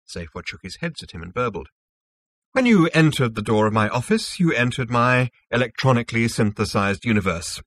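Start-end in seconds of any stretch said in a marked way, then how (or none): 2.5-7.6 lightly voiced self-assured official; smug Zarniwoop, explaining. Zarniwoop explains his synthetic universe to Zaphod, lightly smug. Character dialogue in narration.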